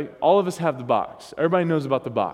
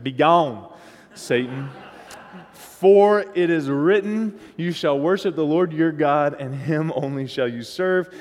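Southern-accented, louder rebuke of Satan; southern preacher accent; 3 dB louder, slower than usual. Shown as a demonstration. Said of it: "with a little bit of a southern accent".

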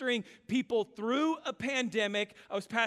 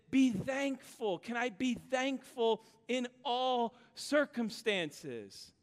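gentle divine challenge. Retold or imitated. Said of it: "the Lord spoke so clearly to my heart".

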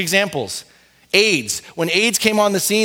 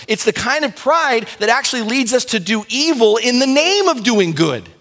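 sharper, higher, more pointed phrasing; a sharper, higher restatement of the point; 5 semitones higher than usual. Shown as a demonstration. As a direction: cut it sharper, drive it home. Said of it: "say that a little bit sharper".

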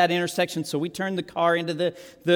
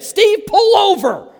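high, loud, slow command to pull over; slow, loud, high-pitched stop order; sharp order; 11 semitones higher, 8 dB louder, slower than usual. Retold or imitated. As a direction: bark it like a stunned wife on the phone. Leah orders Steve to stop.

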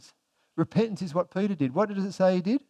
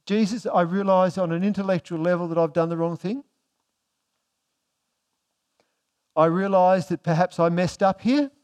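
mildly mock reasonable self-justifying; lightly acted excuse with a questioning lilt; excuse-making; 3 dB louder than usual. Preacher voicing Peter's imagined excuses to Jesus, excuse-making. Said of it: "He stood there and said".

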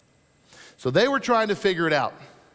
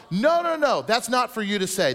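mock scolding crowd; 3 semitones higher than usual. Voicing the crowd's objection.

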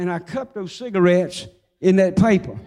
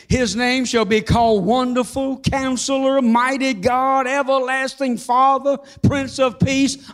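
preaching proclamation; 2 semitones higher than usual. Acted. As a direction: proclaim each name of God to the church. Preacher proclaiming names of God.

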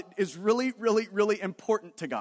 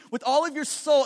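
"soul" repeated higher with emphasis; emphatic repetition; 4 semitones higher than usual. Retold or imitated. Preacher showing how Jesus repeats for emphasis, emphatic. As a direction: hammer "all of your soul" home, pitched up. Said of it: "it's like repeating it".

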